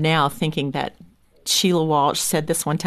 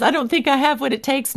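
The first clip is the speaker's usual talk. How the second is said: doubting mother; 7 semitones higher than usual. Retold or imitated. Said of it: "that mother who says".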